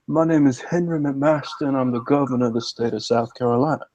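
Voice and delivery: lightly imitated sophisticated Southern accent, dropped R's; Henry McMaster. Shown as a demonstration. Imitating the governor introducing himself, sophisticated Southern accent. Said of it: "This is how he talks".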